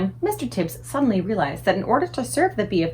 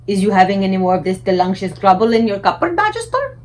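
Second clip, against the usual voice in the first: hopeful giant voice; 6 dB louder than usual. A narrator's reading. BFG voice.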